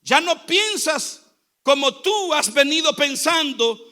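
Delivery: projected, emphatic sermon delivery; preaching. Real, not acted. Preacher urging the church to hate poverty, emphatic preaching. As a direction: preach it out to the congregation.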